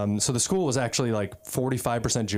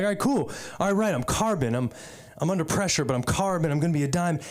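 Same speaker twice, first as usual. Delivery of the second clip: higher-pitched, lightly acted self-motivation; mock convinced; 4 semitones higher, faster than usual. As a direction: talk yourself into believing it. Acts out buying the pep talk.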